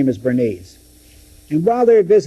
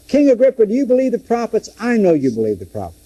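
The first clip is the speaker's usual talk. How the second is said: pleading challenge; 7 semitones higher, faster than usual. Acted. Paul presses the king.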